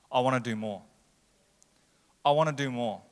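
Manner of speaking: firm divine reply. Acted. Voicing God's low, firm reply.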